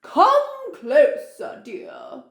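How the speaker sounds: high slow call fading to a breathy growl. Acted. Wolf lures the girl closer, slow, ending in a growl. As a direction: lure her closer, then growl. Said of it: "growled the wolf".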